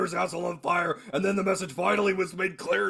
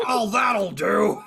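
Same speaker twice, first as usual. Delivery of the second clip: mock hag impression; much slower than usual. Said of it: "make me sound like such a hag".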